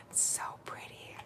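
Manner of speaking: breathy awed whisper. Real, not acted. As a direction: whisper in awe. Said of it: "I have to whisper".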